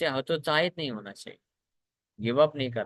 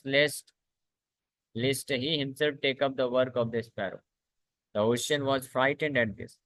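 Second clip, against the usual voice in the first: very slow, measured reading of the story; slow scripture reading; much slower than usual. A narrator's reading. Teacher reading a scripture story to the class, slow and measured. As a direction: read each phrase slowly and deliberately to the class.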